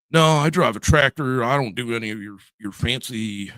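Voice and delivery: lightly put-on country Ohio accent; a hint of Ohio farmer twang; mock rural Ohio accent. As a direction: play a stubborn tractor driver with a rural accent. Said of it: "I'm using that accent".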